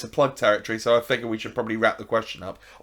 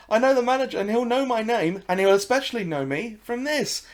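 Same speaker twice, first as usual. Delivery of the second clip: higher and louder, "I know the manager" thrown out; loud frog boast; 11 semitones higher, 4 dB louder than usual. Acted. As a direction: brag it out like a cocky cartoon frog. Frog repeats, now boasting.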